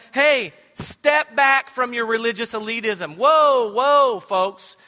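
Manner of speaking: loud, high mock rebuke as Paul; a hint of an apostle calling them back; Paul rebuking. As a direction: scold the church like Paul. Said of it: "And he's telling them".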